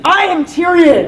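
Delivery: high, slow, loud declaration; Tyrion. Acted. Coach and student trade Tyrion's line, loud and slow. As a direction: proclaim it at full voice. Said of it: "you're repeating after me".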